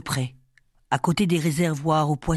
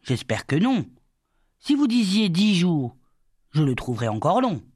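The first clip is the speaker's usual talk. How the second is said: lively. A narrator's reading. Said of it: "Il dit vivement".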